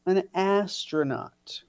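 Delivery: ordinary delivery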